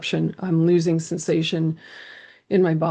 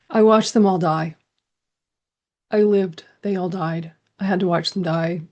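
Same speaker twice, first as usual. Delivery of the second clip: put-on child voice. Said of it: "My voice is that of a small child".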